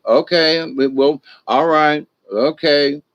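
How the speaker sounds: slowly settling a heated pair down; unhurried, soothing peacemaker stepping in; calm de-escalating. Shown as a demonstration. Peacemaker calming two people mid-fight, slow and soothing. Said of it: "You just be the calm one".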